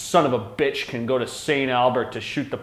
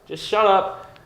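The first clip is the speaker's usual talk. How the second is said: exasperated shut up; 8 semitones higher, 4 dB louder, slower than usual. Retold or imitated. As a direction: sigh it out like you're sick of him. Telling Trump to be quiet.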